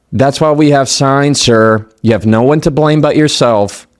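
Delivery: smug, talking down to him; condescending. Retold or imitated. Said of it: "the tone came across was so condescending".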